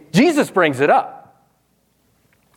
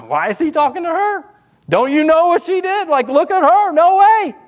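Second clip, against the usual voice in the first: higher, scandalized insider whisper-turned-scoff; accusatory gossip; 11 semitones higher than usual. Retold or imitated. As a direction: sneer like a judgy church insider. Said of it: "More accusatory".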